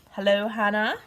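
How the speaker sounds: calling loudly to someone in another room. Real, not acted. Calling out to daughter off-camera.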